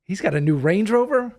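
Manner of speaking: hammed-up envy of a rival who resents your success; mock jealous rant. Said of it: "their own insecurities come out".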